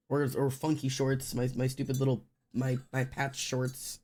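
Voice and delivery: normal talking voice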